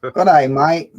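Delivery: put-on a playful stab at an Australian accent with "day" as "die" and "mate" as "mite"; mock Australian accent. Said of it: "say three Aussie words".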